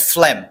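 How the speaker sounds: ফ্লেম with an F sound and no G; silent G. Shown as a demonstration. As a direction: say ফ্লেম as "flem", G left silent. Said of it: "এখানে জিটা উচ্চারণ হবে না".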